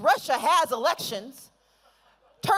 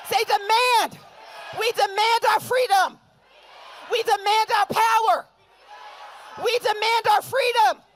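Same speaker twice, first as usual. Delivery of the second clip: rally call and response; 3 semitones higher than usual. Acted. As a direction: whip the crowd into echoing each word.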